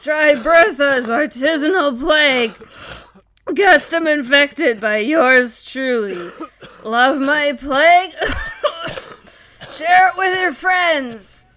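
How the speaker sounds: loud, slow peasant huckster; sales pitch. Acted. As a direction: sell the plague like a TV pitchwoman. Bertha pitching plague like ad.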